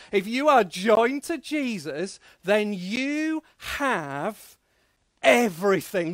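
slow build, pause, then EVERYTHING loud; call-and-response line. Shown as a demonstration. Preacher leading the children in a chant, slow then loud. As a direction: hold it, pause, punch everything. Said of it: "adults as well, come on".

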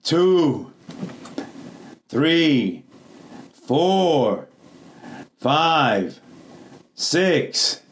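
drawn-out count, each number called out separately; emotional counting. Shown as a demonstration. Preacher rallies the church to count along, emotional drawn-out call. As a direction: lead the crowd in an expectant count. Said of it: "That's not even emotional".

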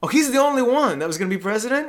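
high, loud mock disbelief; imitated incredulous professor. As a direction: question it like an astonished teacher. Voices the professor's surprised question.

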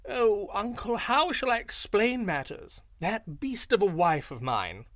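high, slow, wheedling jackal voice; sly yippy jackal. A narrator's reading. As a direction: play the fawning trickster jackal. Jackal pleads innocence to lion.

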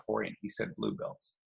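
hushed aside, dropped well down; low, secret aside to Rorion, hushed; retold whisper. Whispering to Rorion not to pick him, hushed. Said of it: "And I whisper in".

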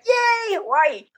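high, thrilled cheer of Hawaii; mock delighted yay; excited yay. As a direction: squeal it like a kid promised a trip. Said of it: "You're so excited".

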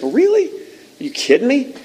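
very high-pitched, sceptical questioning; mock incredulity. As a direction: react as if hearing a ridiculous excuse. Acted disbelief at someone shifting blame.

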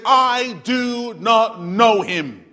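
slow, drawn-out cold denial; Peter's denial. Retold or imitated. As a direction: spell out each word of the betrayal. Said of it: "he curses and he swears and he says".

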